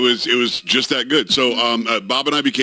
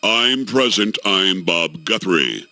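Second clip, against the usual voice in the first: a hint of a booming newsman, slowing at the end; Bob Guthrie; 3 semitones lower, slower than usual. Host mimics the old news anchor's booming voice, lightly. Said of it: "But this guy's voice was like".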